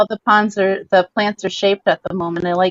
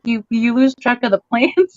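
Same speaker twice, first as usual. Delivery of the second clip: normal talking voice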